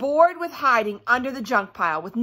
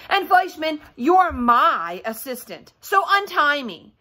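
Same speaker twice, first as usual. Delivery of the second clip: bossy Lulu; 4 semitones higher, 3 dB louder than usual. Acted. Lulu bossing Fleischman.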